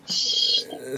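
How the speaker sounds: breathy playful hush; whispering. Pretend. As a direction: whisper it like a secret. Hushing about local talk.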